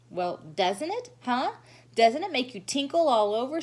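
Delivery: put-on high, bright gushing little girl; gushing showy girl. Lucille gushing to the children, high and showy. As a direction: gush to the whole class.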